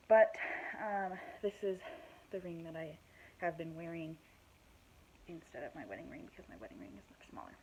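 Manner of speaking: slightly out of breath, talking; winded pregnant talk. Real, not acted. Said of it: "I'm out of breath".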